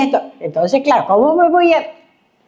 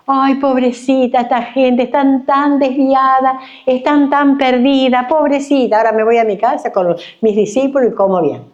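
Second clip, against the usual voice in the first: mock pity; 5 semitones higher than usual. Creyente indiferente, parodiado.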